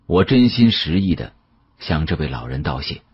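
usual speaking voice

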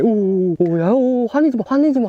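high, startled cries to calm it; startled pleading. Real, not acted. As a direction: plead in alarm, pitch climbing. Catch starts thrashing in hands.

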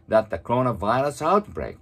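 very slow, fully articulated English reading; read-aloud model. Shown as a demonstration. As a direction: move the lips fully, reading slowly for shadowing. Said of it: "本当に大きな声で唇を思いっきり動かして". (口を大きく動かしてゆっくり音読)

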